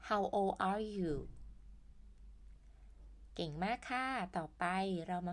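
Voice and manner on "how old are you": put-on How old are you stretched slowly; teacher modelling slowly; slow model question. Shown as a demonstration. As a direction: spell it out slowly for learners. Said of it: "มาฝึกอ่านอีกรอบหนึ่ง".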